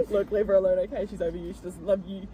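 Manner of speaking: amateur Irish accent; Irish accent attempt. Shown as a demonstration. Friend taking her turn as Niall, attempting an Irish accent. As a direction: have a playful go at Irish. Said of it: "Can you do an Irish accent?".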